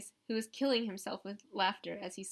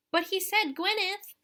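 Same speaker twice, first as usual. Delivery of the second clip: put-on high, louder child's voice, slow and stubborn; young girl insisting, drawn out and higher; insisting little girl; 10 semitones higher, 7 dB louder than usual. A narrator's reading. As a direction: dig in like a small girl who knows she's right. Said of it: "insisted Caroline".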